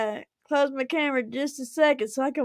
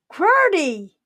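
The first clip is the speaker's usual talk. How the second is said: surprised; 6 semitones higher, 6 dB louder than usual. Real, not acted. Surprise at a big donation.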